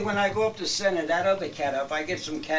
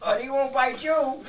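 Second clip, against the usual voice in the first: laughing; 12 semitones higher than usual. Real, not acted. Laughs while telling the trick.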